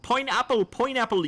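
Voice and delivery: pineapple called out high and loud. Real, not acted. Streamer repeating the codeword after a failed whisper, loud and high. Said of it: "Sorry, I can't understand your request".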